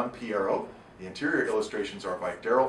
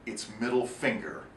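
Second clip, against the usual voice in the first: softer, slow, breathy final line; whispered punchline; 4 semitones lower, 5 dB quieter, slower than usual. Acted. Narrator delivering the story's final gag, slow and whispered. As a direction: let the joke land in a hush.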